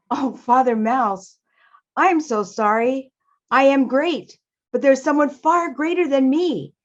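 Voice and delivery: measured, regretful storybook wall; Mister Wall, apologetic. Acted.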